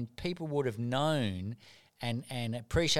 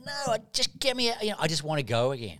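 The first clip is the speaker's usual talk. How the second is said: mock desperate. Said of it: "And I'd be going".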